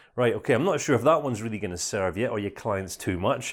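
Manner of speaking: ordinary talk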